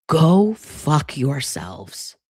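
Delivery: slow furious curse. Real, not acted. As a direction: drag out each word with contempt. Cursing him out.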